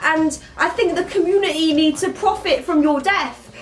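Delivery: lightly acted royal declaring a kill; Prince William. William threatens Scar the lion, mock impression. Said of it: "William would be like".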